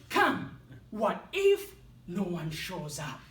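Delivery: anxious doubting inner critic, slowing; nagging inner voice. Retold or imitated. Night before his seminar, anxious inner critic. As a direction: worry aloud as the inner critic. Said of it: "negative self-talk kicked in".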